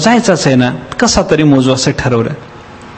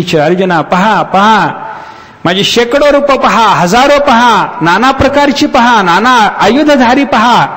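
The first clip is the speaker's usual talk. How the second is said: much higher, slow, insistent call to look; Krishna urging; 7 semitones higher, slower than usual. Acted. Krishna calls on Arjuna to behold his forms, high slow proclamation. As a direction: proclaim the divine forms grandly.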